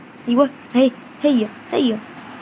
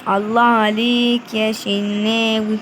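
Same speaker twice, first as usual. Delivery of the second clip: slow praise; much slower than usual. Real, not acted. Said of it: "repeated praise".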